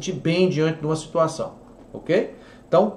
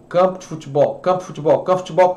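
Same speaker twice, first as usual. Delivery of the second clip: campo de futebol repeated, each take quicker and more run together; speeding up; faster than usual. Shown as a demonstration. Teacher showing how comfortable sounds like fast speech. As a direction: rattle off campo de futebol faster and faster. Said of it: "Acelere e fale campo de futebol".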